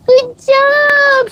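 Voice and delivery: very high, bright good job; high praise. Real, not acted. Owner praising the dog after it goes, very high.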